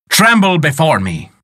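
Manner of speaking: a giant wizard bellowing a threat, half-hearted; hammed-up roar. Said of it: "he roared".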